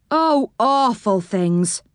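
slow, woeful doll voice; mildly tearful, slow and sad; miserable sailor doll. Acted. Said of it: "They were crying".

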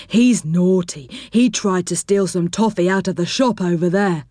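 a gentle, plodding teddy bear. Acted.

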